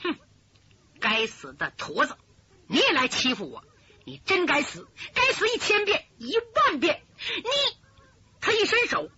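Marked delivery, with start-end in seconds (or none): 0.0-7.8 rising to a high, tearful yell; a spoiled youth cursing the hunchback, near tears; throwing a tantrum. Acted. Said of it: "那个武生发起脾气". (武生发脾气，越骂越高，带着哭腔)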